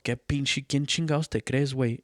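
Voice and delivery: lightly voiced drunk father picking a fight; mildly heated Spanish taunt; drunk dad's challenge. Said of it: "And he's all".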